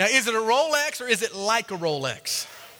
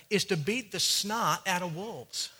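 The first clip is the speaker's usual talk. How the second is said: Southern accent; 5 dB quieter than usual. Shown as a demonstration. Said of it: "I'll say it in Southern".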